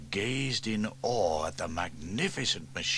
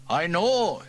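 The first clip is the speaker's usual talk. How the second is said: louder Welsh fireman beginning; Fireman Sam voice; 10 semitones higher, 9 dB louder than usual. A narrator's reading. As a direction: start like a defensive uncle. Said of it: "he began".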